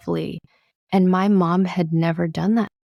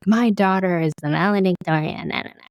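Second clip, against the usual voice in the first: bragging mom. Retold or imitated. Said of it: "My mom would brag".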